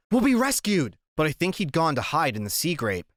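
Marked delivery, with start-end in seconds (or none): 0.1-1.0 high-pitched, raised cry of hope; excited shout. A narrator's reading. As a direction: shout it out in jubilation. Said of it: "I shouted at Stukat".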